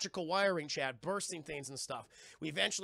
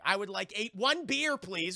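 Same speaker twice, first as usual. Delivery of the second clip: mock awkward ordering; 3 semitones higher, 5 dB louder than usual. Bandaged shy man ordering at the bar, mock awkward. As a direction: imitate an uneasy customer placing an order.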